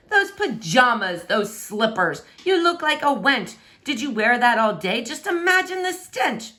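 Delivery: lightly voiced scornful prince; mock her outfit with disdain; snooty insulting prince.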